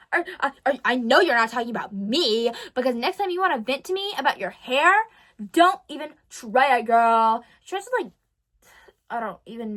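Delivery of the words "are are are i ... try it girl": retold crash out. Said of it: "she crashes out".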